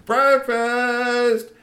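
high, loud breakfast call; yelling breakfast. Acted. Aunties wake the troll kids, yelling high and loud. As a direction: holler it across the kitchen.

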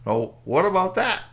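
brisk, loud ranger checking up; park ranger. Acted. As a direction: question a camper, rising on the last words. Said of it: "park ranger looked at it and said".

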